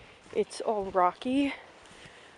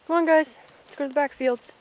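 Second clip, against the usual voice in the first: loud, higher call to the herd; rally the ponies; 6 semitones higher, 8 dB louder, faster than usual. Real, not acted. Calling the ponies along.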